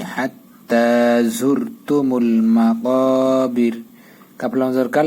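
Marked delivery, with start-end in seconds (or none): 0.0-3.8 drawn-out chant of the verse; recitation together. Shown as a demonstration. Teacher reciting the verse together with the class. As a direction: lead the class through the verse. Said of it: "এখন আমরা মিলে".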